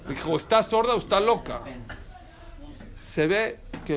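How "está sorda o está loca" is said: higher, louder mock reproach; reproche indignado imitado. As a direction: retell an indignant outburst, pitched up. Retells angry reproach at dinner. (reproche indignado, imitado)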